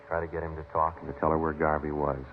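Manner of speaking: steady, matter-of-fact case report over music; clipped police narration. A narrator's reading. Detective narrating the investigation to the listener, a dry report. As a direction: report the facts like a case file.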